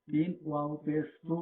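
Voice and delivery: সু held long at the end; one-alif madd. Shown as a demonstration. Teacher spelling out a syllable for learners, long-drawn সু. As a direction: draw out the vowel of সু for one alif. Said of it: "এক আলিফ টান দিয়ে পড়তে হবে".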